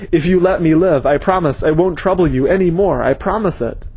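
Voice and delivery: frightened captive begging. Acted. Frightened captive begs for life.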